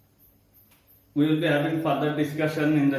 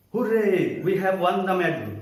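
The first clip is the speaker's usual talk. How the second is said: raised, louder exclamatory cheer; exclamation; 2 semitones higher, 4 dB louder than usual. Shown as a demonstration. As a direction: call it out like a small victory cry. Example of exclamatory sentence.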